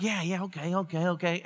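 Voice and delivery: low, soft, reluctant going-along; hesitant agreement. Acted. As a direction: go along quietly, half-convinced. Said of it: "And you feel like".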